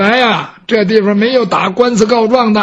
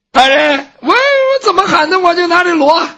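whining plea; 8 semitones higher than usual. Acted. Fan pleads with Judge Bao.

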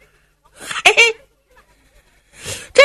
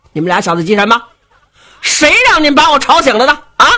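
Xiong scolding; 3 semitones higher, much faster than usual. Acted. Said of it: "我说".

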